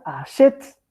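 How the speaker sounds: achet dicho a la francesa, despacio, con la e marcada; pronunciación francesa. Shown as a demonstration. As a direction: pronuncia achet lentamente, ach-ET con e abierta. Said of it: "Se pronuncia". (achet pronunciado despacio a la francesa)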